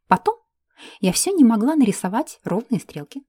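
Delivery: plain reading voice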